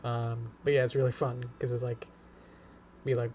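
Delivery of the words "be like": ordinary talk, nothing marked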